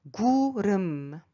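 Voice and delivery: 구름 with a rolled R starting 름. Shown as a demonstration. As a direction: roll into the second syllable of 구름. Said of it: "Il faut rouler un peu".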